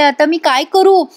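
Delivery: mock-worried slow question; tense plea. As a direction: ask "काय करू" in a drawn-out, mildly panicked way. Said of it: "Gauri टेन्शनमध्ये येते".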